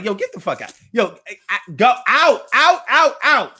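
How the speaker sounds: mock loud shout of get out, rising on the outs; imitating dad shouting. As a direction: bark him out of the office in dad's voice. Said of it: "when my dad would kick him out".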